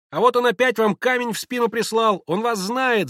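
put-on high, loud childish calls; shouting children. A narrator's reading. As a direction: cry out like excited kids. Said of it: "закричали дети". (крики детей)

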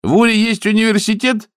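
high, loud surprised question; a loud, high gasp of a question; astonished. Acted. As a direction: ask in disbelief.

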